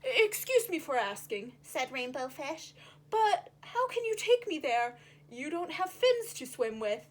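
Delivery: put-on curious young fish voice; polite Rainbow Fish. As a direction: ask politely but doubtful.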